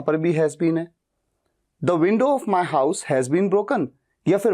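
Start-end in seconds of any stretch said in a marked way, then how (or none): 1.8-3.9 slow, careful teacher read; slow model sentence. Shown as a demonstration. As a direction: spell it out slowly for learners. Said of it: "इस sentence को बोलने का तरीका".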